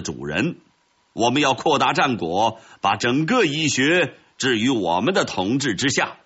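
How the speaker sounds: lightly voiced commander's speech; victorious commander. Red ant commander addresses its troops after victory, mildly proud. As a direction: address the troops with mild pride.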